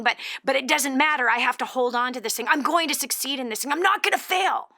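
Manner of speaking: determined self-talk, imitated; acted stubborn resolve. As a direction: pitch climbing to a high, insistent finish. Voicing woman's stubborn resolve.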